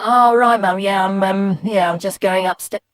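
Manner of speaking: loud high start, sinking as it stumbles; flustered boy. Retold or imitated. Boy caught out by mum, flustered excuse. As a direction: stammer an excuse that deflates. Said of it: "And I go".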